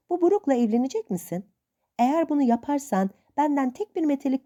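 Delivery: hint of a stern old aunt. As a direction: lightly play the suspicious old aunt. Old aunt lectures Meg.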